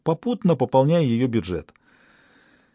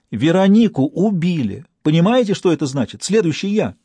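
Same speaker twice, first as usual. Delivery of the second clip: higher, louder, shaken; terrified; 5 semitones higher, 3 dB louder than usual. Acted. Stas tells the detective Veronika was killed, terrified. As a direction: deliver the news, voice climbing with fear.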